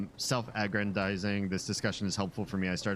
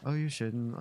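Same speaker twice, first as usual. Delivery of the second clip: a hint of coy, simpering gratitude; lightly voiced cutesy mock thanks; cutesy thank-you; 4 semitones higher than usual. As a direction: lightly play a sweetly gushing streamer. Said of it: "being a little bit cutesy".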